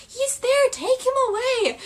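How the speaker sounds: high, loud pointing accusation; mock Pansy betrayal; imitating Pansy. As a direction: sell him out shrilly. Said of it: "Pansy saying her famous line".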